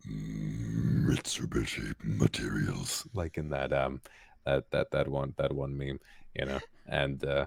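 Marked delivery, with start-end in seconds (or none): 0.1-3.1 very deep, exaggerated gravelly, gristly silly rumble. Showing the silly extreme of going deep: silly deep gristly voice. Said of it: "there's sort of the silly deep".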